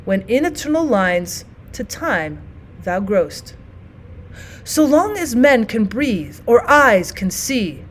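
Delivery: measured reading with pauses between lines; sonnet recital. Shown as a demonstration. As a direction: recite it like a stage reading, slowing at the end.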